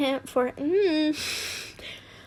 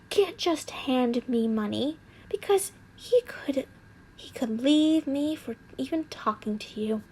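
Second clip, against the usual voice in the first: hissed; 5 dB quieter than usual. Acted. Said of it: "I hissed".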